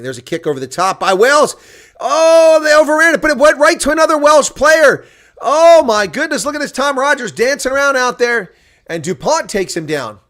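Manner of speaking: thrilled commentary on a lucky bounce; excited play-by-play. Acted. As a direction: shout the chase as it happens. Live play-by-play of kick chase.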